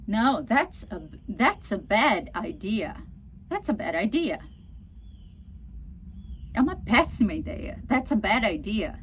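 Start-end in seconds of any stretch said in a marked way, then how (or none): 0.1-4.4 aggressive. Shown as a demonstration. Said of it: "Você tá sendo agressivo". 7.9-9.0 aggressive. Shown as a demonstration. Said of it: "Você tá sendo agressivo".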